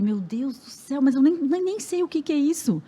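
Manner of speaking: re-enacted overwhelmed outburst; retold freak-out. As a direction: imitate a mother starting to panic. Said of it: "eu surtei".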